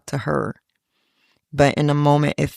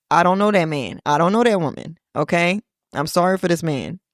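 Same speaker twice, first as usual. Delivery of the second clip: Keke Palmer voice; 3 semitones higher than usual. Retold or imitated. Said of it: "in my Keke Palmer voice".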